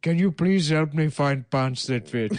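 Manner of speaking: mock Bangladeshi accent, timid request; Bangladeshi officer. Police officer asking a passer-by for help, mock Bangladeshi accent. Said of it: "like, Bangladeshi police officers".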